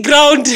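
"ground" for brown, said loudly; child's slip "ground", echoed loud; imitated child mispronunciation. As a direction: mimic the child saying "ground" instead of brown. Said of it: "She can't say brown well".

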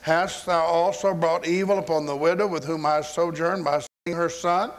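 retold cry to the Lord; crying out in prayer. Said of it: "he cried to the Lord".

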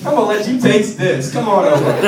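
high sassy come-on to the male; female wildebeest voice. Pretend. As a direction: play the smitten wildebeest calling him over. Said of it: "She's like, she's like".

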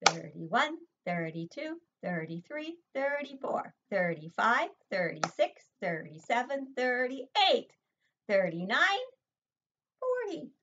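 upbeat classroom counting game; counting with motions. Shown as a demonstration. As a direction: lively count building to a high "forty". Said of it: "We'll do motions".

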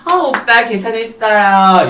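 drawn-out hostess coo; singsong madam. Acted. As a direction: announce it in a slow, put-on hostess singsong. Madam returns sweetly announcing the payment.

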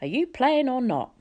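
a bored god snapping at his card partner; impatient. A narrator's reading. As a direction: hurry him up, annoyed. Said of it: "Mister D said impatiently".

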